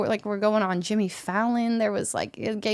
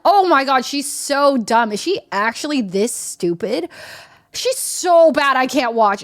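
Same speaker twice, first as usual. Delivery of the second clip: mock scornful viewer; 3 semitones higher, 4 dB louder than usual. Viewers judging the player's mistakes, imitated scornful outrage. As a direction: lean hard on the insults, mimicking a critic. Viewers insulting her, acted.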